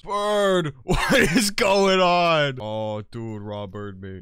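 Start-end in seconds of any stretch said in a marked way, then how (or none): 0.0-0.7 startled shout. Real, not acted. Startled by bird. 0.8-2.6 laughing. Real, not acted. Laughing surprise.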